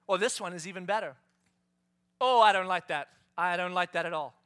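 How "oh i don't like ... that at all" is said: put-on picky child. Picky child voiced in story.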